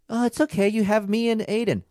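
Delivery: high, sugary consoling voice, well above his own; mock sympathetic girlfriend. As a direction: mimic a girlfriend cooing comfort at him. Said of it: "Don't try to be like".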